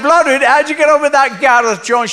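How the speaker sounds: put-on high, loud old Welsh lady voice; a gossiping old woman, pitched right up.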